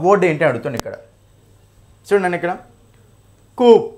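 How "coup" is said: "కూప్" said with the P left unpronounced; silent P. Shown as a demonstration. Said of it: "ఇక్కడ మనకు P అనేది పలకమండి".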